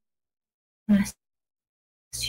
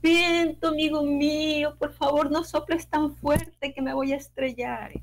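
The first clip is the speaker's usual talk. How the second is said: frightened cry; 7 semitones higher than usual. Acted. Chick blown through the trees begging the wind, high frightened cry. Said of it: "comenzó a gritar".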